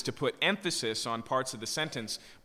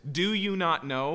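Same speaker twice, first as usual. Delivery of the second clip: incredulous reminder; 5 semitones higher than usual. Acted. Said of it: "it implies basics".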